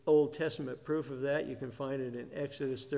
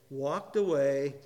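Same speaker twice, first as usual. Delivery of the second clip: "walked" punched louder than the rest; stress on "walked"; 3 dB louder, slower than usual. Shown as a demonstration. Preacher telling of the healed paralytic, emphasis on "walked". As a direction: lean firmly on the word "walked". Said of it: "emphasis on the walked".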